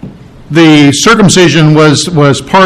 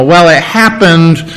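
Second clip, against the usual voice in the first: casual happenstance. Pretend. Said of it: "just a happenstance".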